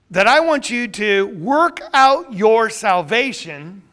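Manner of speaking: loud, slow, fervent preaching. Real, not acted. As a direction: preach the line slowly with full force. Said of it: "I see a sermon coming on right now".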